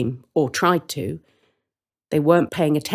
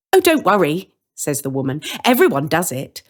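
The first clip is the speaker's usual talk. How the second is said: put-on louder, cheery welcoming old woman; friendly woman; 3 semitones higher, 3 dB louder than usual. Woman inviting the children in for tea, cheery. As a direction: invite them in warmly. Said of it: "She seems friendly".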